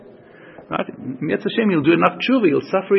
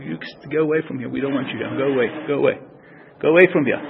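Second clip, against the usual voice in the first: mildly insistent; 2 semitones lower, faster than usual. Acted. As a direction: send them off firmly but without raising your voice. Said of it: "he's a bit insistent".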